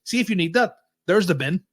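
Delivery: retelling the jibe at the ticket guy, sarcastic; sarcastic retort. Retold or imitated. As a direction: point him at the bin, sarcastic. Mocking reply to ticket guy.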